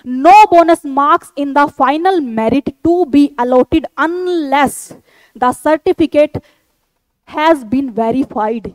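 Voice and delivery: slow, deliberate read-out of a notice; reading aloud. Real, not acted. Teacher reading an army notification to candidates, slow deliberate read-out. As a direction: read each phrase out slowly and carefully.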